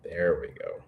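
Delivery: soft whispered aside; hushed, pleased whisper. Real, not acted. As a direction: whisper it to yourself. Quiet aside after friend's pitch.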